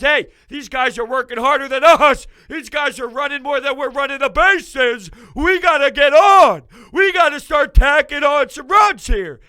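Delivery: voiced players' pep talk, building to a shout; imitating rallying players. Players realizing fans outwork them, mock rallying shout. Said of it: "then the players realized".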